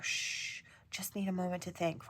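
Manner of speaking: soft unvoiced shh, barely there; whispered plea for a quiet moment; hushed whisper. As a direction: hush them like a spirit asking for quiet. Spirit's hushing message quoted.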